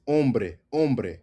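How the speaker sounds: hombre said om-breh, no H; silent H. Shown as a demonstration. Teacher correcting learners, "hombre" with silent H. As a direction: begin "hombre" straight on the O. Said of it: "The H disappears".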